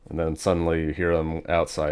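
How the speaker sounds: ordinary talk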